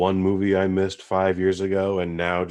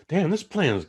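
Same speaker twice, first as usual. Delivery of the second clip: excited moviegoer; 6 semitones higher than usual. Retold or imitated. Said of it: "you're like".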